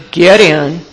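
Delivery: exaggerated gruff "get in"; curt order. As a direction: order them into the car grudgingly. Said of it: "I didn't say it like that".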